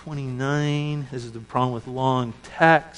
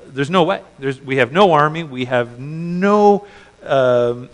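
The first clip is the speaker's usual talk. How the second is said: louder, urgent panic about giants; panicked spies; 6 dB louder than usual. Retold or imitated. Spies reporting to Moses, loud and panicked. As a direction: push the fear, no way in.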